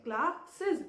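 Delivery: "classes" slowly split as cla-sses; slow, syllable-by-syllable "classes"; stressed plural ending. Shown as a demonstration. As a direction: draw out "classes" so the final -es is clear. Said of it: "that means S in the last".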